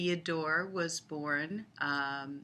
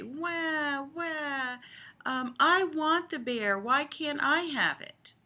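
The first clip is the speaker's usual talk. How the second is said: high, hammed-up fake wailing, louder; mock crying; 10 semitones higher, 4 dB louder, slower than usual. Grandma fake-crying to granddaughter over the bear, high mock wail. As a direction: whine like a toddler denied a toy. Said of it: "what I was supposed to do was cry".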